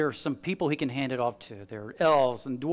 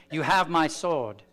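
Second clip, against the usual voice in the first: Aragorn's line; slower than usual. Retold or imitated. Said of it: "how he talks in the movie".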